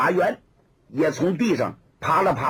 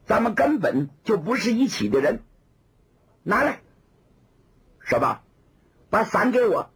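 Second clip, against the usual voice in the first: put-on haughty young woman; 4 semitones higher than usual. Woman demanding umbrella.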